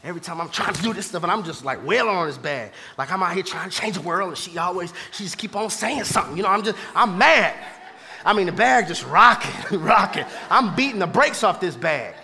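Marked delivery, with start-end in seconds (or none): 0.0-7.5 retold frustration. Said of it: "I'm in the garage".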